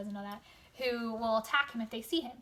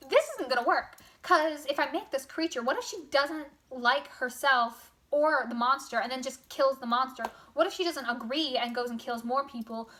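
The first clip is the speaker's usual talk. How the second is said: mock panic; 2 semitones higher, 4 dB louder than usual. Frankenstein doubting the monster's girlfriend halfway through, mock panic. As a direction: act out a creator talking himself into alarm.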